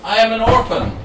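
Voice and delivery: high, loud mock-tragic cry; hammed-up orphan cry; cried out. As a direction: wail it like a lonely child. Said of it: "cried out".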